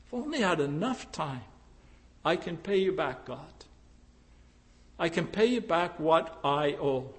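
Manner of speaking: soft, fast inner voice of a sinner; quiet self-deception. Retold or imitated. Preacher voicing a sinner promising God repayment, soft. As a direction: murmur the excuse under your breath.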